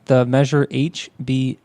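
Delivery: measured, informative reading; news article read-aloud. Real, not acted.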